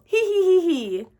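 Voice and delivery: high acted giggle; giggling. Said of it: "He began to giggle".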